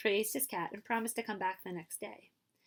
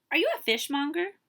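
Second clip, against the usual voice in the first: put-on higher, light young woman asking; 8 semitones higher, 7 dB louder than usual. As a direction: ask sweetly as the kimono lady.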